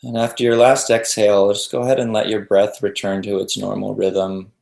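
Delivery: calm meditation guide with long pauses between phrases; even, settled voice leaving room to breathe; guided meditation. Real, not acted.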